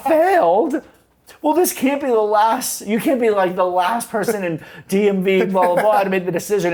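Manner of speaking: very high and loud, indignant whine; outraged protest. Retold or imitated. Cher protests to the instructor, very high indignant. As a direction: protest like a spoiled teen. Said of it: "Cher reacts to failing".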